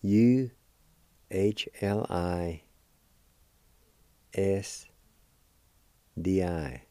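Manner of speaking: letters spelled out slowly; slow, careful letter spelling. Shown as a demonstration. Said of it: "You spell this".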